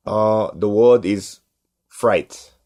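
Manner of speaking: put-on slow, deliberate Korean-accented English; halting Korean-accented quizmaster; Korean dad's accent. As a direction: imitate an immigrant dad announcing the word with a Korean accent. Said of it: "my dad can't speak English that well".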